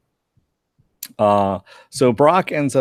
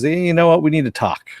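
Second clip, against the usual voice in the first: stern Hunter; 7 semitones higher, 4 dB louder than usual. Retold or imitated. Hunter Gathers confronting Doc.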